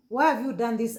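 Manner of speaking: angry confrontation. Retold or imitated. Confronting the nanny.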